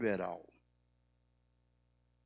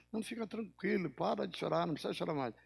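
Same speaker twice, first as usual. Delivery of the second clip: soft, higher reassurance, imitating a parent; retold soothing father; 4 semitones higher, 4 dB quieter, faster than usual. Father comforting his crying daughter, soft retold reassurance. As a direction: gently hush a crying child. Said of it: "Ela continuou chorando".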